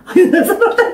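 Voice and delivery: high, laughing mock sigh of relief. Pastor joking that the child's prayer saves her, laughing relief.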